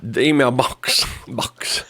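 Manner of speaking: slow, teasing imitation of a redneck twang; playful redneck mimicry; mock redneck accent. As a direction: echo a redneck drawl slowly. Mimics co-host's redneck line.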